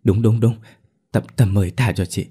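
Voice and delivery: a hint of a terrified sister-in-law begging; frantic pleading. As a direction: beg for your life, fast and pressing. Lan begs ghost for mercy.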